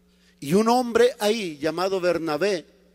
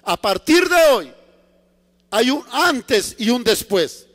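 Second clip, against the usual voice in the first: God's forceful command; 2 semitones higher, 5 dB louder than usual. Acted. God interrupts self-assured Paul, forceful command. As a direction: lay down the line forcefully. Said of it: "y Dios le dice".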